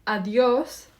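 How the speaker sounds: "Adios" as a parting call with a lift at the end; leaving the room. Pretend. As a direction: say a rising goodbye on the way out. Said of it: "as if you are leaving the room".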